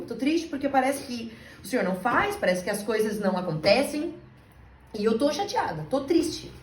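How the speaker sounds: high, retold sulky complaint to God; upset complaint. Woman recalling telling God she's sad, upset. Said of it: "eu fiquei assim".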